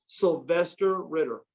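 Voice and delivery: slow, measured announcement; retold name reveal. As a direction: deliver the name slowly, like a reveal. Dad reveals the athlete's name.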